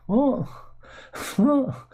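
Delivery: high, rising "what? what?" with a laugh; laughing disbelief at a posh accent; incredulous. Retold or imitated. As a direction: squeak it out in mock disbelief. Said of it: "reaction to the accent".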